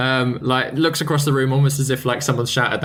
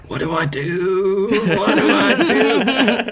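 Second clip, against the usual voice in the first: mock panicked plea; 9 semitones higher, much slower than usual. Acted silent plea for help.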